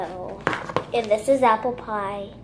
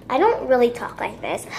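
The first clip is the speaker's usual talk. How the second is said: put-on voice. Shown as a demonstration. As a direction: say it in a fake everyday voice. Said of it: "use this voice".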